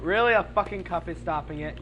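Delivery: high, loud disbelief; sudden exasperated really; incredulous yell. Real, not acted. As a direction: shout it at the stubborn cup. Blocked by a cup.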